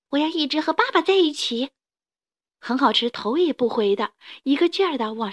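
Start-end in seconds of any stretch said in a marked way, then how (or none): 0.1-1.7 put-on higher little-kid voice; a child running uphill for dad; determined child. 孩子边跑边说. (小孩子边跑边坚定地说)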